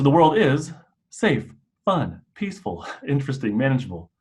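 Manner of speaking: lively rising and falling read; sing-song melody. Shown as a demonstration. Showing the class a lively melodic read. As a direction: give it a warm bouncing tune. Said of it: "if I were to read this like this".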